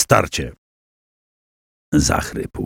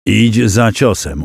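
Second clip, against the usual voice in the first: slow, measured "Idź za ciosem", each word given weight; remembered mentor's voice; slower than usual. Acted. Przemysł hears his master in his head, slow inner voice. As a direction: recall the master's words slowly, as an inner voice. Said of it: "usłyszał w głowie głos Drogomira".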